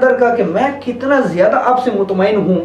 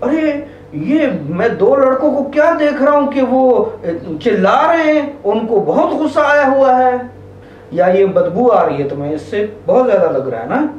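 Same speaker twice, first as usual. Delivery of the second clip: calm acknowledging. Shown as a demonstration. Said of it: "बस आपको सिर्फ ये अल्फाज कहने हैं".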